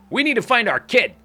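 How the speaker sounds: loud, high heroic declaration; dramatic vow. Acted. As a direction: proclaim it like a movie hero. Dramatic vow about finding kid.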